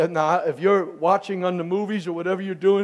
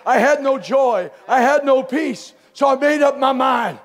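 shouted confession of a convicted man; voicing the psalmist; 5 semitones higher than usual. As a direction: cry it out like a man under heavy conviction. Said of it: "He said".

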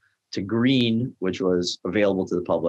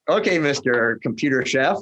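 teasing mister title; lightly sarcastic title; mock respect; 4 semitones higher than usual. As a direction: poke fun at the fancy chef.

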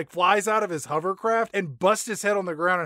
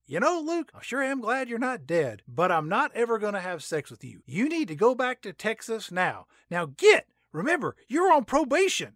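put-on high, sassy girlfriend voice; pop singer voice; 7 semitones higher than usual. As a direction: brush him off sweetly but firmly. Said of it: "a singer says".

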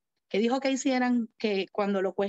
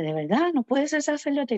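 incredulous question; 6 semitones higher than usual. Acted. Leader questions the would-be priest.

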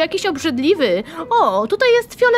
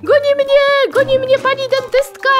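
mock panic; 8 semitones higher, 4 dB louder, faster than usual. Chased by game dentist.

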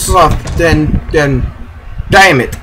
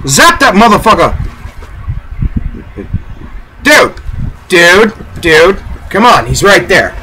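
excited urging. Real, not acted. Urging teammate during fight.

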